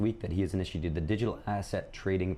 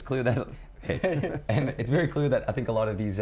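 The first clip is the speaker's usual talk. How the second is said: Canadian accent; 4 semitones higher than usual. Shown as a demonstration. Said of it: "Canadian voice".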